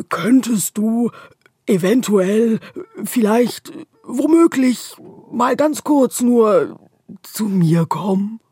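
slow, loud and clearly spaced; slow careful repeat. A narrator's reading. The darkness repeats its request, slow and clear. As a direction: spell it out slowly word by word. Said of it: "wiederholt die Dunkelheit".

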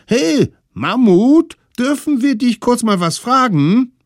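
put-on very high, loud children's call; squeaky little kids calling; high kids' voice. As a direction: call up to the mammoth like tiny kids. Little ones address mammoth.

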